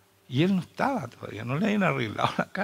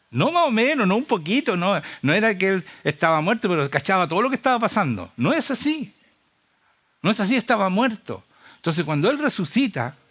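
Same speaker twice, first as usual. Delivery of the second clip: raised, insistent pulpit voice; emphatic preaching; 6 semitones higher, 4 dB louder than usual. Real, not acted. Preacher insisting to the congregation that Jesus truly died, emphatic. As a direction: drive the point home, higher pitched. Preacher drives home the point.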